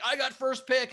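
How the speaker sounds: imitating an excited child calling first pick; excited kid. Kid to siblings choosing Star Wars guys, excited. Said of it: "just as excited as we were".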